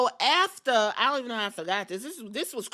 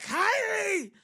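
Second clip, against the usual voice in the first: high call; 11 semitones higher than usual. Retold or imitated. Asuka calling out to Kyrie.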